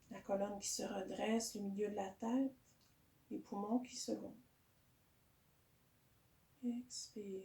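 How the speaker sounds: calm yoga guidance with long pauses; guided meditation. Real, not acted. Teacher settling a yoga class into breathing, calm guided meditation. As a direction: guide the breath gently, unhurried.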